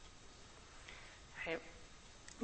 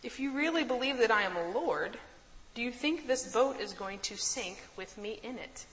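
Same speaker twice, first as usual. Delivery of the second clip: Jesus's gentle rebuke; 4 semitones higher than usual. Retold or imitated. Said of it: "he says".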